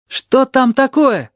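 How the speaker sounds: slow, very high call. A narrator's reading. Narrator calls from bed to the crowd, slow and high. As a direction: call out across the room. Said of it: "кричу я".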